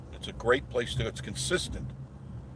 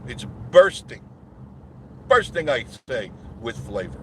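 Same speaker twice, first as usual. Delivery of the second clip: mock pitchman; 5 dB louder than usual. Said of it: "mock ad pitch".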